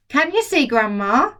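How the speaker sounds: put-on boy shouting. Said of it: "George shouted".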